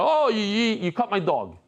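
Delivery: high, loud indignant cry; dog owner scolding the vet who cut his dog, mock outrage; mock outraged dog owner. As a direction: yelp it like a shocked pet owner.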